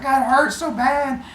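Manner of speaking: high, slow mock whimper; whiny complaint. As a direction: draw it out like a big baby in pain. Zeus with headache.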